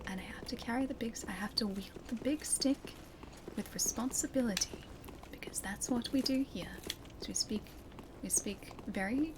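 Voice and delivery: hushed whisper, mock solemn. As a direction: whisper it like a secret. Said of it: "Speak softly and carry a big stick".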